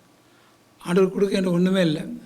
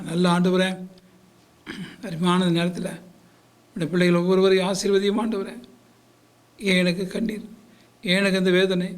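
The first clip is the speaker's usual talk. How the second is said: pleading pastor's prayer, rising in fervour; earnest Tamil pastor praying for his flock; fervent prayer. Acted. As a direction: pray aloud over the congregation. Pastor leads closing prayer.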